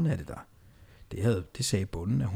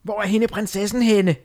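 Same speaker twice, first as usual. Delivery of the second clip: high, louder witch screech; witch shriek; 9 semitones higher, 5 dB louder than usual. Acted. Witch Onde shrieks for the lost princess. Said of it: "Pludselig skreg onde".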